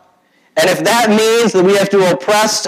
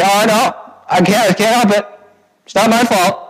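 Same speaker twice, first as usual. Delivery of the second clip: a touch of high whiny excuse; lightly hammed-up blame-dodging; mock whining; 5 semitones higher than usual. Preacher mimicking Israel dodging blame, mild mock whine.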